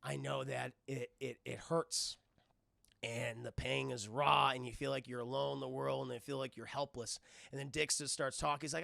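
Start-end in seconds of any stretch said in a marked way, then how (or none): 0.0-7.2 Bruce gently consoling the orphan; comforting Bruce. Retold or imitated. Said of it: "He goes".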